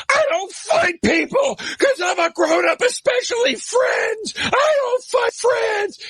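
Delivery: mock him as a prissy grown-up; high, slow sneering imitation of Pete; mocking high whiny Pete. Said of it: "And he goes".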